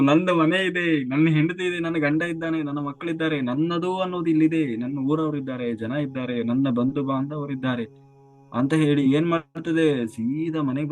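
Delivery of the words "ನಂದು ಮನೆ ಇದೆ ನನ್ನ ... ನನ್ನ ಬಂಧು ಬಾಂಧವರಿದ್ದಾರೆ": defiant protest. Acted. Stubborn soul refusing the messengers, defiant and raised. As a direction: protest like someone who won't let go.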